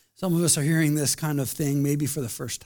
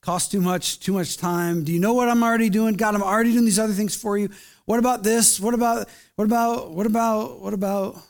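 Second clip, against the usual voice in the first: mock excuses; 3 semitones higher than usual. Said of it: "excuses lined up".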